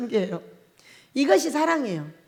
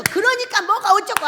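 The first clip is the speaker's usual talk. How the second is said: mock lecturing; 6 semitones higher than usual. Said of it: "그런데 막 가르쳐".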